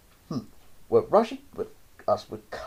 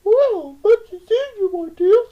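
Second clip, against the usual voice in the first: whispered in ear; 9 dB louder than usual. A narrator's reading. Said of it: "He turned and whispered in my ear".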